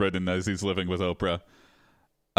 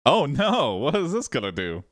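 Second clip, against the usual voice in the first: alarmed; 4 semitones higher than usual. Real, not acted. Dread at what comes next.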